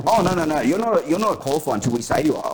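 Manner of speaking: mock the boss turning him down; a hint of a smug boss. Boss refusing, mimicked.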